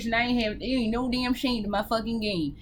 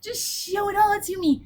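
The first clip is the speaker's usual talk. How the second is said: eager; 2 semitones higher than usual. Real, not acted. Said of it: "my body and soul are ready".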